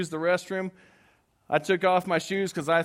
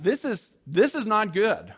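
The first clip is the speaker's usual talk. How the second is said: worried; 4 semitones higher, 4 dB louder, slower than usual. Retold or imitated. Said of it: "my franticness and anxiety".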